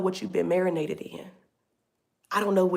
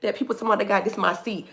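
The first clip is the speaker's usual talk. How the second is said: imitating the bishop; 4 semitones higher than usual. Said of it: "He said".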